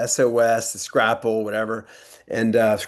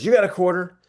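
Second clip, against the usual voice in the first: higher, hammed-up disgusted outburst; mock disgust; 8 semitones higher, 3 dB louder than usual. Actor tasting a weak Bloody Mary, mock disgust. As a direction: spit it out like a drink gone wrong. Actor asks dad for quarter.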